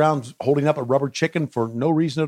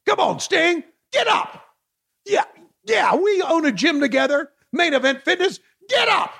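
cheering on; 13 semitones higher than usual. Acted. Cheering Sting on.

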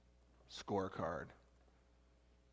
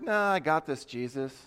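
mock self-assured refusal; dismissive brush-off; 4 semitones higher, 4 dB louder than usual. Preacher voices people who think they don't need Jesus, dismissive. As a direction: toss it off breezily, a bit higher.

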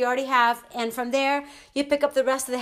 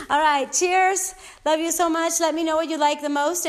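excited; 4 semitones higher, 3 dB louder than usual. Real, not acted. Upbeat sign-off.

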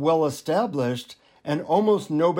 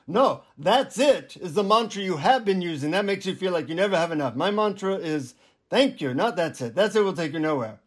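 put-on guru correcting in an Indian accent; 3 semitones higher than usual. Guru correcting the disappointed seeker, Indian accent. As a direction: imitate an Indian guru setting someone straight. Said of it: "in an Indian accent, he says".

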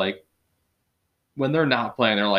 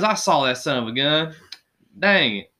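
mock frustrated grumbling, a little raised; Phillip Rivers; 5 semitones higher, 5 dB louder than usual. Friend imitating quarterback who never cusses, mildly raised mock frustration. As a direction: lightly imitate a folksy, vexed quarterback. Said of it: "but he never cussed".

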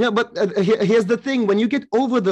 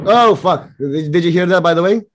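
startled; 6 dB louder than usual. Real, not acted. Sudden loud bang outside during call.

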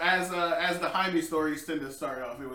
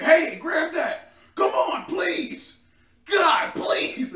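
high pleading call; 11 semitones higher, 6 dB louder, much slower than usual. Retold or imitated. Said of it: "It's like".

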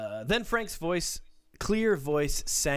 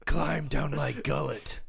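Cave of Wonders voice. Retold or imitated. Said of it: "I was doing the Cave of Wonders".

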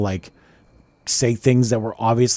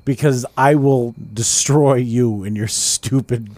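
slow, drawn-out menacing boast; mock threat; slower than usual. Warning any bumbling car salesman, slow mock threat. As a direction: pace out a mock warning word by word.

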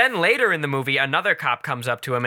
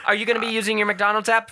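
drive-thru worker voice; 5 semitones higher, faster than usual. Retold or imitated.

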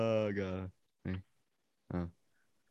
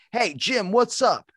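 higher, cheery phone greeting; a caller greets Jim brightly on the phone; imitating caller; 12 semitones higher, 4 dB louder, slower than usual. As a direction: chirp it like an old friend calling. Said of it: "and then they're like".

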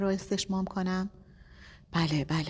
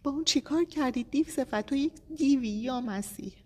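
furious accusation; 9 semitones higher than usual. A narrator's reading. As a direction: rage at the monster who did this. Husband raging at unseen gunman.

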